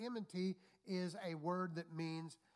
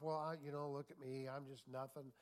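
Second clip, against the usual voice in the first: self-pitying whine. Retold or imitated. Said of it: "when we're always looking at ourselves".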